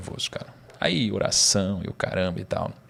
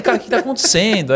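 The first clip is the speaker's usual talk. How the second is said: high, louder astonished question; bewildered; 11 semitones higher, 5 dB louder than usual. Retold or imitated. Stunned as the crowd shouts, high and louder. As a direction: ask it thrown by the chaos.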